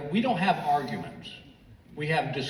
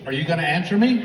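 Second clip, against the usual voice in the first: sudden demand; 5 dB louder than usual. Retold or imitated. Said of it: "all of a sudden she goes".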